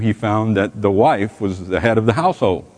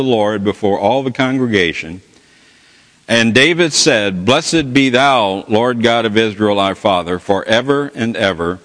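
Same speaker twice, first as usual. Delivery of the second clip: slow, measured reading of "Blessed be thou"; solemn scripture reading. Acted. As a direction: read the verse with gentle reverence. Reads scripture aloud.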